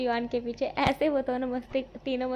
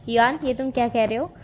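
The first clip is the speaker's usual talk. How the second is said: louder, startled challenge to a teasing friend; sharp confronting call; 7 dB louder than usual. Acted. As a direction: call him out loudly, caught off guard. Wing confronts Yuan sharply. (ज़ोर से टोकते हुए)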